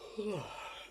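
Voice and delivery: big tired yawn. Real, not acted. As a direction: let out a long weary yawn. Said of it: "I'm yawning".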